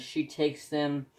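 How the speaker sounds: mid-burp, words round a burp. Real, not acted. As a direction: talk through a small burp. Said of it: "I'm burping".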